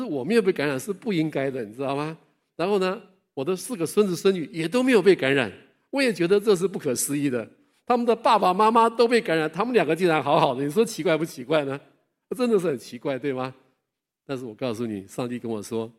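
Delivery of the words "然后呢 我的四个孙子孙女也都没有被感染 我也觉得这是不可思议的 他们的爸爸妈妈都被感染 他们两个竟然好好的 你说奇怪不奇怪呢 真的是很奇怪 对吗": louder, marvelling at the wonder; amazed. Real, not acted. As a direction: proclaim it as a real wonder. Amazed preacher stresses his testimony.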